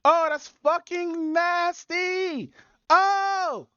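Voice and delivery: high slow disgusted groan. Real, not acted. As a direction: stretch out the disgust. Reacting to gross clip.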